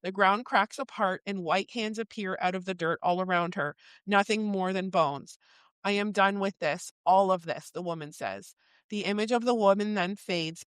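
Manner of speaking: measured book reading, falling at line ends; story narration. A narrator's reading. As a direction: read the passage aloud, letting phrases settle. Reads book passage aloud.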